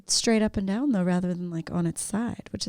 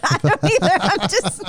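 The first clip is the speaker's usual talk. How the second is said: laughing; 4 dB louder than usual. Real, not acted. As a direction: laugh it out as you admit it. Both laugh at the awkward moment.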